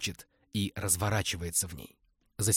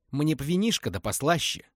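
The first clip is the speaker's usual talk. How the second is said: coy refusal; 6 semitones higher, 5 dB louder than usual. Acted. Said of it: "отказалась Лиза".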